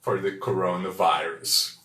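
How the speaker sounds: My cousin tested positive for the coronavirus, read slowly; slow model sentence. Shown as a demonstration. Teacher repeating the example for learners, slowly. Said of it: "Mais uma vez".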